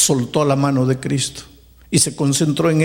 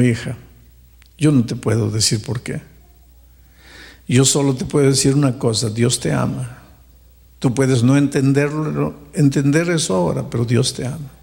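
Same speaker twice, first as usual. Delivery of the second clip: retold fatherly reassurance, pitched down; gentle consoling pastor; 2 semitones lower than usual. Pastor consoles the distraught woman.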